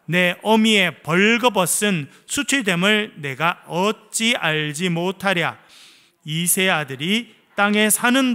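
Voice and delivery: slow, weighty Bible reading; scripture reading. Acted. Pastor and church reading Saul's rebuke, slow and solemn. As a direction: read it slowly with solemn force.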